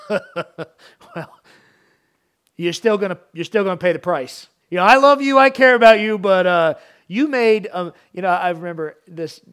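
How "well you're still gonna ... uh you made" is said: imitating a firm parent, much louder; mock stern but loving parent; parent scolding. Preacher voices a parent correcting a child, loud stern. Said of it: "could kind of say".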